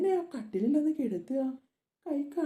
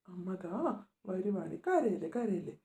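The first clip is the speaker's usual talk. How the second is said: soft hush; 6 semitones lower, 7 dB quieter than usual. Acted. Mother hushing her crying daughter, softly. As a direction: drop to a soft, hushed soothing.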